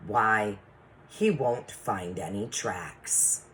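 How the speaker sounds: put-on measured, expressive read-aloud for children; story narration. Teacher reading a chapter to the class, storytelling voice. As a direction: read a storybook to the class, savouring key words.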